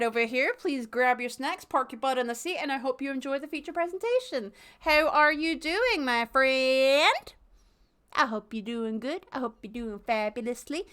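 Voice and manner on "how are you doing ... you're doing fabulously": put-on a light Southern accent, slow and friendly; a touch of Southern drawl in the greeting. Greeting a chat viewer in a light Southern accent. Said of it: "I don't know why I went Southern".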